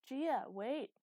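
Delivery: loud, high shout to stop; calling out. A narrator's reading. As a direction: call urgently after a running child. Calling after running daughter.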